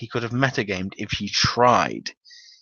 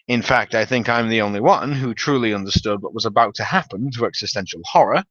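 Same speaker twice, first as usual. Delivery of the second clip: normal talking voice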